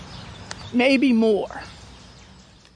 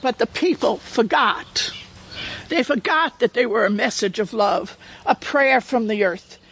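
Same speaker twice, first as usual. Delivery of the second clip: measured read-aloud with pauses between phrases; gently paced storybook reading; story narration. A narrator's reading. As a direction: read it like a fable to a listening room. Reads a picture book aloud.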